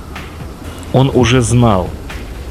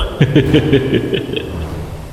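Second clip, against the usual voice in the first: evil laugh; 4 semitones higher than usual. Acted. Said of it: "зловещий голос".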